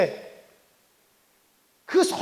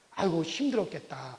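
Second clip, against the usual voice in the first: softer, lower voice of a comforting father; gently sympathize as the father would; lightly voiced consoling dad; retold sympathetic father; 5 semitones lower, 5 dB quieter than usual. Retold father comforting his child.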